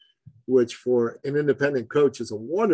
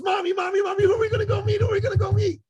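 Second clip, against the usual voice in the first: put-on much higher excited child voice; excited little boy; 3 dB louder, faster than usual. Son asking his mommy who they'll meet, high and excited. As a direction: bounce like an eager twelve-year-old. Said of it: "just like little boys do, very excited".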